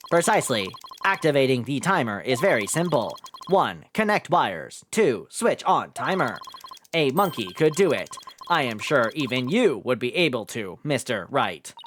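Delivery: flat mocking robot; deadpan machine taunt. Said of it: "robot voice".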